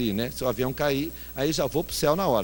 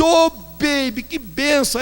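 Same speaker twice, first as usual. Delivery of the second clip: delighted greeting; 10 semitones higher, 3 dB louder, slower than usual. Retold or imitated. Pastor's delighted retold reply.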